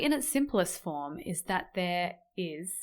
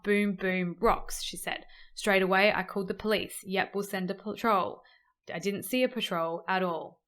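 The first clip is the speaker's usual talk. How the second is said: newsreader voice. Acted. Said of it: "I put on the newsreader voice sometimes".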